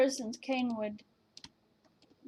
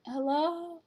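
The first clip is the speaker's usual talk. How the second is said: drawn-out questioning hello; testing hello; 4 semitones higher, 5 dB louder than usual. Real, not acted. Checking if voice is on, drawn-out testing call. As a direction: stretch it out, checking for a response. Testing whether voice chat works.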